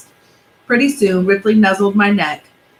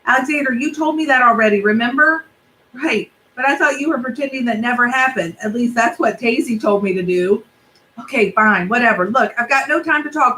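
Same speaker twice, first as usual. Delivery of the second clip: lightly voiced kid, higher, begging; pleading boy; 4 semitones higher than usual. Benji begging mom to chase the car, lightly higher. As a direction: push hard, then beg.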